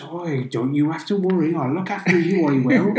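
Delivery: a hint of a West Country accent, kindly; lightly voiced Somerset captain. Host retelling the game's opening, lightly voiced Somerset captain. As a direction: reassure the baby like a friendly Somerset sailor. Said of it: "Captain Somerset then ... goes".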